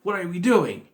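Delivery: baffled protest. Retold or imitated. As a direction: react like an incredulous viewer. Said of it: "I'm like".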